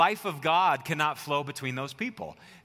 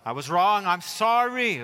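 firm apology; 2 semitones higher, 3 dB louder, slower than usual. Shown as a demonstration. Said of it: "What are you gonna say next?".

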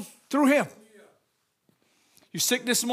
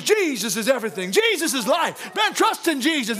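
dream preaching. Retold or imitated. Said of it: "All I would do is".

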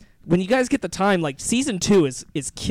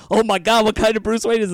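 amazed; 6 semitones higher, 5 dB louder than usual. Retold or imitated. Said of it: "and I'm like".

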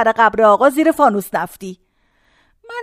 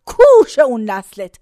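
fervent blessing; 3 semitones higher, 4 dB louder than usual. Retold or imitated. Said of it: "زد به سینش".

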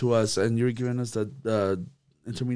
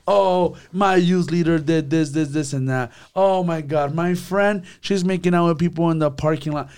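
higher, louder mock outrage; scandalized gossip; 5 semitones higher, 5 dB louder than usual. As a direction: act out a teen breathlessly tattling. Acting out a teen gossiping to parents.

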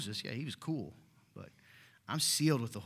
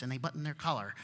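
prim churchgoer. Pretend. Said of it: "they talk like this".

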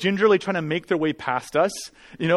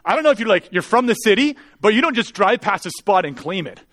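heated, scolding retelling; mildly angry retort; 2 semitones higher, 3 dB louder than usual. Retold or imitated. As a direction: act out a touch of indignation. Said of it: "I got angry quickly".

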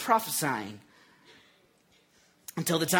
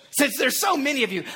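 higher-pitched mock-considerate jab; teasing taunt, pitched up; cocky; 6 semitones higher, 4 dB louder than usual. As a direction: imitate a cocky challenger, leaning on SO. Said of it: "he's a little cocky".

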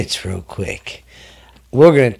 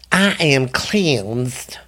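slow whispered proclamation; mock solemn whisper; 3 dB quieter, much slower than usual. Dad after coughing, slow mock-solemn whisper.

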